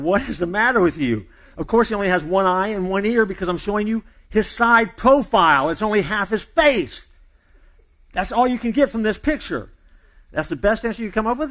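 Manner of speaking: mildly upset. Retold or imitated. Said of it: "Ab got a little upset".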